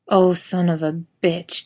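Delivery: slow pained groaning; moaning. Acted. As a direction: drag it out with a groan. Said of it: "Jensen moans".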